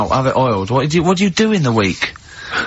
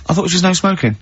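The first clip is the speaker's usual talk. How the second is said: higher-pitched, put-on polite query; self-mocking retold complaint; 4 semitones higher, faster than usual. Customer complaining to waitress about smoking, awkwardly high. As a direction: imitate your own awkward little complaint. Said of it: "I don't know why I said it like this".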